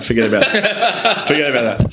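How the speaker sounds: high laughing wave-off, laughter breaking through; laughing dismissal. Retold or imitated. Retelling the investor who laughs off the small fund deal. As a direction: laugh it off like the deal means nothing.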